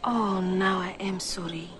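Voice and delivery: slow, hushed whisper of sorrow; whispered sympathy. Acted. Detective consoles client about her dead father, whispering.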